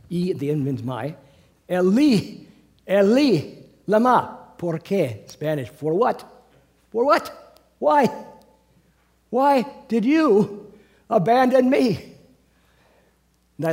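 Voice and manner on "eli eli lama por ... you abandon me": loud, high, pleading cry of forsakenness; voiced cry of Jesus on the cross; anguished cry.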